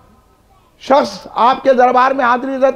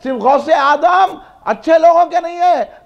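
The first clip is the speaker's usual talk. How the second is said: raised-pitch rhetorical repetition; impassioned preaching; 4 semitones higher than usual. Real, not acted. Preacher tells the congregation the saint is for everyone, impassioned preaching. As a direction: preach each clause out to the crowd.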